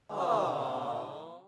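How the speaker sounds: breathy pitying aww; hammed-up sympathy; mock sad aww. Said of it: "makes me want to roll up and cry".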